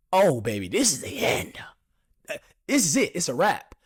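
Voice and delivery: loud, hammed-up defeat; mock despair. Speaker comically re-enacts feeling defeated by the text, mock despair. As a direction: play the doom up for comedy. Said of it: "I'm making it funny now".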